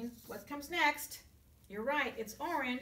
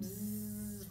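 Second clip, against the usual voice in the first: buzzy housefly buzz; 2 semitones lower than usual. Acted. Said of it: "The fly was buzzing around".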